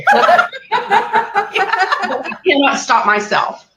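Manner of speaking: real helpless laughter, high and drawn out; can barely get it out for laughing; laughing till crying. Real, not acted. Storyteller confesses losing control, laughing to tears. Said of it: "it's not funny 'cause I'm crying".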